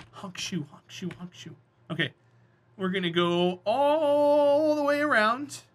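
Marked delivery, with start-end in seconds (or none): 0.1-1.5 very soft fake snore; snoring. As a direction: mimic snoring softly. Close your eyes.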